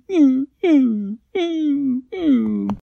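high, loud whimpering meows; high plaintive meows; whining meow. A narrator's reading. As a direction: whine like a scared giant dog. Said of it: "started whining and going".

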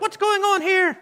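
very high mock-alarmed cry; exaggerated high-pitched demand; imitating alarmed mother. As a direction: shoot the pitch way up, imitating a startled mom. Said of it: "you came up and you're like".

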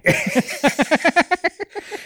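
rising burst of laughter; high laugh. Real, not acted. Laughing after quote.

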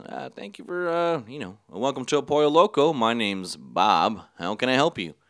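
put-on lightly accented English of a cashier; imitated foreign accent. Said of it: "in a much similar accent".

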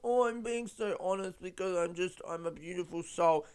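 put-on sugary sincerity; gently mock someone too sweet and earnest; mock saccharine. Mimicking a singer who's precious about honesty, mock saccharine. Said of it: "Like, saccharine. She's not too sweet".

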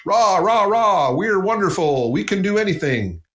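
a sarcastic rah-rah boast; mock rah-rah cheer. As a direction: parody a hollow cheerleading speech. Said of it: "I call it rah-rah speech".

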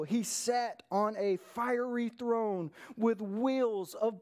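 slow, weighty preacher's reading; measured pulpit reading with deliberate pauses; dramatic scripture reading. Acted. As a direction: proclaim the vision slowly, letting phrases hang. Reads scripture aloud to congregation.

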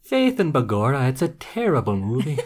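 hammed-up, amateur Irish accent; old Irish lady. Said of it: "sound like ... old Irish lady".

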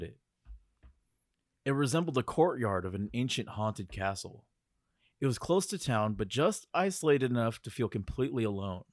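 measured spooky storytelling; story narration. Acted. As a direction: read it like a campfire tale. Reads scripted ghost story.

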